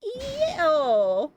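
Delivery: a sharp loud grossed-out ew; disgusted ew. Real, not acted. Player reacting to gross scene, loud disgusted ew. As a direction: recoil from something gross.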